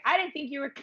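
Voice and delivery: high-pitched jeweler. Retold or imitated. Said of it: "she was like".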